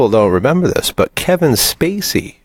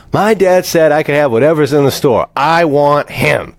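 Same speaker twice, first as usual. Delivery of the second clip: put-on spoiled kid; 5 semitones higher than usual. Voices spoiled kid insisting.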